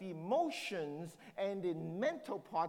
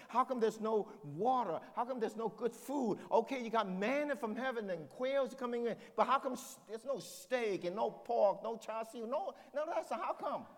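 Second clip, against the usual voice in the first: pitched-up mock whining; grumbling Israelites; 3 semitones higher than usual. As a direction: moan like spoiled ex-slaves wanting more.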